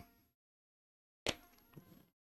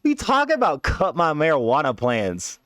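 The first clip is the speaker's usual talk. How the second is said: pitched-up protest, voice climbing; high protest; 5 semitones higher than usual. Retold or imitated. Refusing the vision's order, rising high protest. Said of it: "I'm like".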